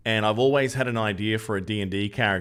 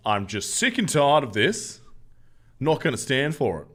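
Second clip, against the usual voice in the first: hammed-up indignant rant, higher and louder, slowed; mock outrage; 5 semitones higher, 4 dB louder than usual. Streamer hams up outrage at chat, mock indignant rant. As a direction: fake fury for the chat, dragged out.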